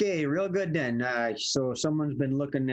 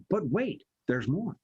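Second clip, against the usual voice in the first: infomercial hard sell. Shown as a demonstration. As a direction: sell it like a late-night TV ad. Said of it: "hearkening back to the old Q V C hard sell".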